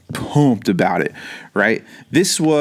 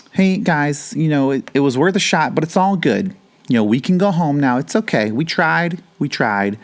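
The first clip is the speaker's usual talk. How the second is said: paralyzed guy giving up; 5 semitones higher than usual. Retold or imitated. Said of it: "is like".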